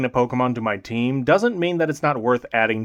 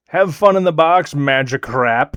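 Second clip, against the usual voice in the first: mock cheerful dismissal; 5 dB louder than usual. Real, not acted. Dumping the useless Magikarp.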